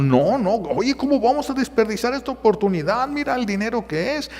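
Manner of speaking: can't waste this chance; husband pushing wife to take the test; greedy insisting. Retold or imitated. Husband arguing for money.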